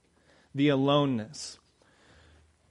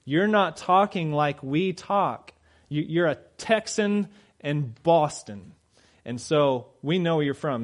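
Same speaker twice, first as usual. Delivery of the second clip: mocking bystanders; 3 semitones higher, 4 dB louder, slower than usual. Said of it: "they go".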